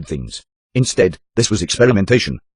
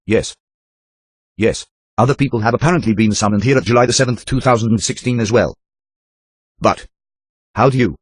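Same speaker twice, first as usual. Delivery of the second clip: timid woman. Acted. Captive woman answering.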